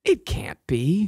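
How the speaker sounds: breathy stage whisper, slow; dramatic whisper. Pretend. Hosts trading the line, hushed dramatic whisper. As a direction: whisper it like a shocked heroine.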